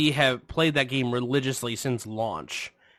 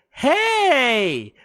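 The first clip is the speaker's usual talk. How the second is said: high, loud, drawn-out mock hail; imitating nosy stranger; 12 semitones higher, 5 dB louder, slower than usual. Woman to man at counter, high mock call.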